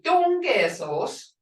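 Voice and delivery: "Dungesos" said slowly, ending rising as a teaching example; slow clipped form. Shown as a demonstration. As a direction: draw out "Dungesos" for the learners. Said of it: "that's what you'll hear".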